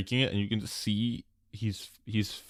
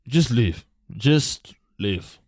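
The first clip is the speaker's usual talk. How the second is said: curt order; 6 dB louder, much slower than usual. Acted. Shopkeeper ordering them out.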